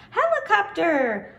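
Helicopter slow and high, syllable by syllable; slow syllable count. Shown as a demonstration. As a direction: tap out each beat of Helicopter slowly. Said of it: "here I go".

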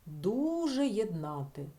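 Дуже єднати said slowly, testing it; teacher testing a word aloud; slow trial phrase. Shown as a demonstration. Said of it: "замінити на слово дуже".

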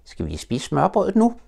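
put-on high, slow, childlike question; a small child hoping for lunch; Roo's little voice. Little Roo asks Tigger about the sandwiches, high and childlike.

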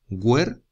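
HUER... TO, two clear beats; split into syllables. Shown as a demonstration. Teacher showing two syllables, Huerto split as huer... to. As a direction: break Huerto after huer with a pause. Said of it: "Dos sílabas".

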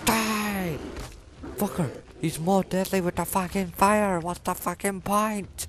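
high, loud panicked shouting; raging gamer scream; furious yell. Real, not acted. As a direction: scream at the monster. Yelling at enemy in panic.

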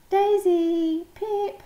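put-on high, loud call for the children; shouting. A narrator's reading. Mama Duck calls her ducklings among the quacking, shouting. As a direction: shout their names across a crowd. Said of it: "shouted Mama Duck".

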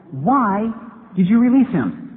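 breathless question. Retold or imitated. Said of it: "he finally asks the man".

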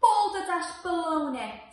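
scoffing crocodile. Acted. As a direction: snort it like a crocodile. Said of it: "said the green crocodile".

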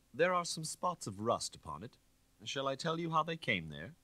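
a hint of a cold detective pressing his case; stern inspector accusing. Inspector voiced.

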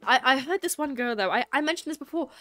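put-on chatting in an amateur British accent. Streamer trying British mode for chat, amateur British accent. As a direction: attempt a British accent, conversationally. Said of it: "spoke like this".

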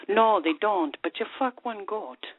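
lilting Scottish brogue as the barman; Scottish pub accent, rolled and proud. Acted. Joke teller voicing a bitter Scottish barman in accent. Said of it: "we definitely applaud you on your accent".

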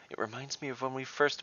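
lifted high with excitement; exclaiming. A narrator's reading. Drusilla calling out to the group, excited. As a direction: call it out gladly to the crowd. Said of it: "Drusilla exclaimed into the crowd".

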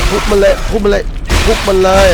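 smash it urging. Real, not acted. Urging himself to smash enemy.

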